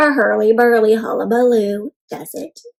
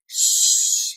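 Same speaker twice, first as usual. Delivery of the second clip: hushing; 7 dB quieter than usual. Acted. Dad hushing during yoga.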